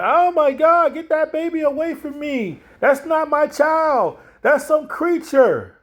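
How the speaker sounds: high, shrill disgusted rejection, slowing down; mother rejecting her newborn, high and horrified. Retold or imitated. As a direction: push the baby away in horror. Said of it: "Heather looking at that baby and saying like".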